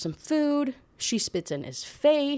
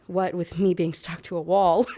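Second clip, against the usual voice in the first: reading through giggles; laughing while reading. Real, not acted. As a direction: read it while cracking up.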